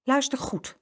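high, careful call for attention; firm instruction. A narrator's reading. Mama to the twins at the lift, firm instruction. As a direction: make the children listen.

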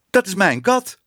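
high-pitched outcry from the audience; calling out. A narrator's reading. Baker recognises his cat on the screen, crying out high. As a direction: cry out in protest, pitched well up. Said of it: "riep de bakker".

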